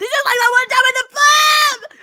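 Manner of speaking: shrill, very loud, high scream, stretched out. Acting out a character being dragged off: screaming while being dragged away. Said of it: "just screaming as I'm being dragged off".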